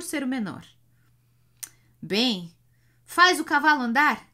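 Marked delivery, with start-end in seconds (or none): 2.0-4.3 shaky, louder and higher yell; trembling shout. A narrator's reading. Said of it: "grita com voz trêmula o corcunda".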